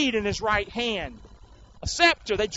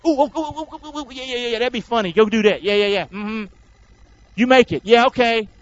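gleeful soldier; 4 dB louder than usual. Acted. Soldiers plotting the sign gleefully.

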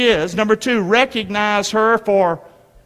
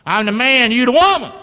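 mock arrogant husband; 4 semitones higher, 4 dB louder than usual. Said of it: "treated their wife like a doormat".

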